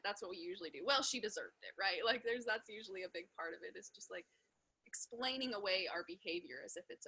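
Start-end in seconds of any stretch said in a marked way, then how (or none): 0.8-1.7 mock justifying. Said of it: "justifying it".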